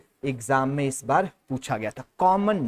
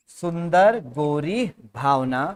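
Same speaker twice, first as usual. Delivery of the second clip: slow mnemonic build-up; slower than usual. Shown as a demonstration. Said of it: "इसके बाद है बेटा सुंदर".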